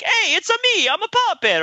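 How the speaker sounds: very high goofy puppet voice; squeaky cartoon puppet, way up high. Mimicking a silly puppet from the sketch, very high. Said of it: "So it's like".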